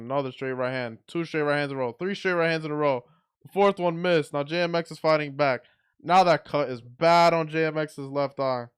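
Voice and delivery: play-by-play rising in pitch and volume; building excitement. Real, not acted. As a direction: count the punches with mounting excitement. Calls a flurry of punches live.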